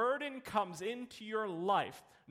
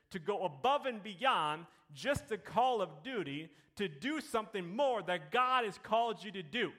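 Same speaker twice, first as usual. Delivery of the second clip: building preaching. Real, not acted.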